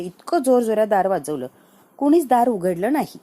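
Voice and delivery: indignant loud complaint. Retold or imitated. Grandma scolding Sarang about the locked door, loud. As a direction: complain loudly that nobody opened.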